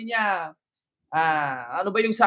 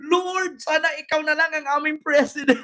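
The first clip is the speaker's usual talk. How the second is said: high-pitched mock plea to heaven; mock cry-out; 5 semitones higher than usual. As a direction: cry out like her, no real volume. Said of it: "tapos sisigaw siya". (kunwaring sigaw na pagsusumamo)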